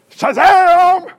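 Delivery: big hammed-up ta-da; magic reveal. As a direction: pop it out like a magic trick. Comic surprise appearance.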